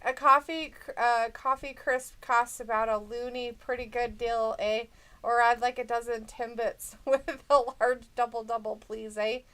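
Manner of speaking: lightly put-on Canadian accent; mock Canadian accent. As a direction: play at being Canadian. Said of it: "I'm Canadian, bud".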